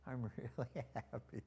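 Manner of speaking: exaggerated slow drawl of his granddaughter; slow-motion mimicry, drawn out on happy; imitating slow talker. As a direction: stretch the words out, teasing her slowness. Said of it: "She talks kind of slow sometimes".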